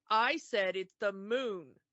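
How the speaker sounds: imitated husband laying down the law; lightly acted emphatic correction; mock stern insistence. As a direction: put your foot down as the overbearing husband, playfully. Acted husband insisting on his falsehood.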